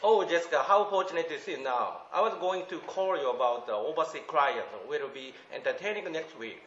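slow, careful English reading; reading aloud. Shown as a demonstration. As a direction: read the English lines slowly and deliberately. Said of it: "ちょっと二行ぐらい読んでいいですか".

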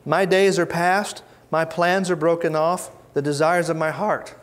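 a touch of anguish, slowed; wounded soul's lament. Retold or imitated. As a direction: read it like a broken man whose plans have fallen apart. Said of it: "The wounded soul is gonna talk like this".

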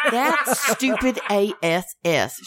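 put-on slow laughing Kentucky accent. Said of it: "she says".

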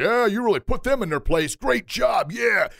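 high-pitched hyped-up praise; cheering supporter. Acted. Friends egging on someone who popped off, mock-excited cheering. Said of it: "our people say".

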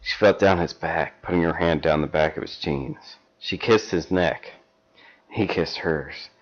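measured storybook reading; story narration. Acted. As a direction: read it like a steamy paperback. Reads erotic fan fiction aloud.

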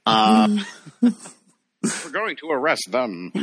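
slow, high and stiffly proper; mock Sam Eagle. Imitating a stuffy puppet arresting someone. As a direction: play a pompous puppet official. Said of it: "Sam Eagle".

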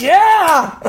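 high, loud whooping yell; acted-out roaring approval; crowd cheer. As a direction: cheer like a whole audience. Crowd cheers Ricky's speech.

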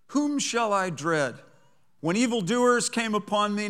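reading the psalm with fervor; fervent scripture reading. Acted. Preacher reading Psalm 27 to the congregation, fervent. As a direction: read it like David wrote it, from the heart. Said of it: "I am gonna be fervent".

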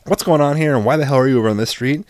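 staged anger to scare them; acted pissed-off dad. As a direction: play the angry dad grilling the kids. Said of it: "acting very pissed off".

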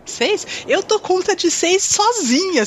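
high, slow, boastful brag; confiante e gabola. Pretend. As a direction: show off as if six is nothing. Warrior boasting she can fight six. (gabando-se com confiança)

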